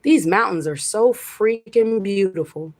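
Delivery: admiring nature. Retold or imitated. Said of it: "I was just".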